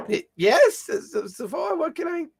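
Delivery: put-on high stammering old man; nervous old servant, stuttering; old man mumbling. GM voices Old Man Grumbles.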